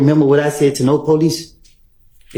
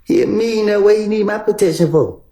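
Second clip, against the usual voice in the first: incredulous; 7 semitones higher than usual. Real, not acted. Incredulous at the suggestion.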